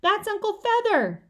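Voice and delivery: high, loud yell. A narrator's reading. Peter shouting to his sister about the loose bird: high, loud yell. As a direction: shout it across the room. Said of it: "I yelled".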